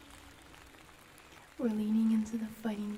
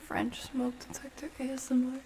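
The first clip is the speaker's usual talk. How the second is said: whisper; 3 semitones higher, 5 dB quieter than usual. Real, not acted.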